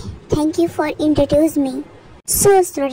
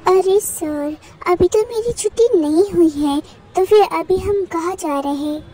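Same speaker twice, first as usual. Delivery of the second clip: put-on lightly raised, childlike student voice; pouty student; 3 semitones higher than usual. Student Jungkook questions the principal, a light childlike whine. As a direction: whine it like a spoiled kid.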